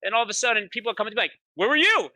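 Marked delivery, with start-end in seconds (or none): 1.5-2.1 retold alarmed question. People confronting him.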